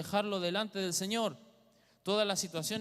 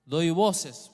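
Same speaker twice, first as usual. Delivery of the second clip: crying out; 10 dB louder than usual. Acted. Preacher explaining crying out.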